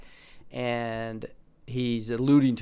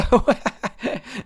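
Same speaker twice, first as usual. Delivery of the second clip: high loud laugh; real amused laugh; 9 semitones higher, 5 dB louder than usual. Real, not acted. Vlogger reading the Schumer article, laughing.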